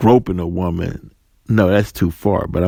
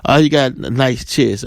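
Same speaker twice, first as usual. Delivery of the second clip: casual retold compliment, slightly raised; lightly voiced woman; 3 semitones higher than usual. Woman compliments a man, lightly imitated casual praise. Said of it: "women are telling men all the time".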